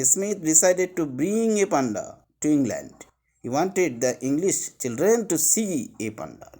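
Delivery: slow, careful reading of the text; slow reading aloud. Shown as a demonstration. Teacher reading the textbook line to students, slow. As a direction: read each word out for the class. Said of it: "that is written".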